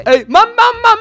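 high, loud excited repeats; excited shouting. Real, not acted. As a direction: shout it out rapidly in real excitement. Podekscytowane okrzyki w grze. (podekscytowany, wysoki okrzyk)

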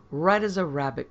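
sudden loud exclamation; explosive cry. Acted. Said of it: "cried Scrope almost explosively".

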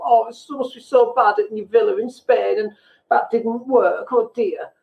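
mock a friend's fake concern about a villa in Spain; mock condescending pity. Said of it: "ability to sound like, I'm not hard done by".

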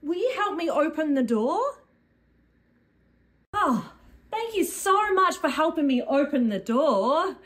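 high, panicky little puppet; high cartoon puppet in a panic. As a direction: squeal like a frightened puppet. Puppet voice panics over paint.

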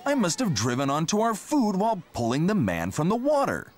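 dismayed tractor. Acted. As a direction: realize the mistake aloud. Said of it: "said Teck".

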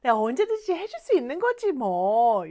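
easygoing, offhand readiness to help; breezy friendly assurance; willing, casual offer. Acted. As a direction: offer help lightly, trailing into a shrug. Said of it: "요런 느낌이에요".

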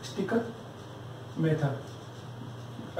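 drawn out slowly so students can write it; slow dictation. Shown as a demonstration. Teacher dictating a term to his class, slow. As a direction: stretch the name out, word by word. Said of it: "इसको लिखना हो लिख लो".

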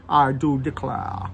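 put-on slow, drawn-out Southern American accent; a playful Southern gentleman's Southern drawl; hammed-up Southern American accent saying I do declare. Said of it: "never attempt another Southern American accent again".

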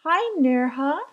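"Nirha" starting with an N; a kid saying "Nirha" for Mirha; name mispronounced. Acted. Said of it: "couldn't say it right".

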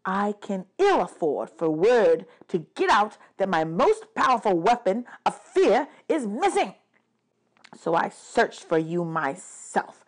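lightly voiced, aggrieved god; bitter god of the dead. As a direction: let the outburst settle into restrained resentment.

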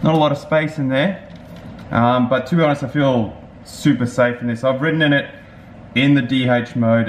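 chin bar before mouth; speaking in full-face helmet. Real, not acted. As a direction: cheeks pressed by pads. Seen 0: Helmet with chin bar worn throughout; cheek pads squeeze cheeks.

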